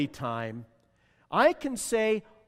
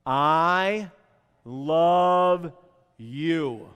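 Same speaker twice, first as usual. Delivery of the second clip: slow, deliberate I love you with a pause after each word; louder, spaced-out I love you; heartfelt demo; 6 dB louder, much slower than usual. Shown as a demonstration. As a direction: model it for the congregation to repeat. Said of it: "This might be tough to say".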